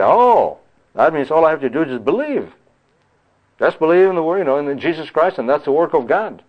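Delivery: mock their naive claim that belief is enough; mocking the ignorant. Preacher mocking people who misread the scripture, scoffing. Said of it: "They say".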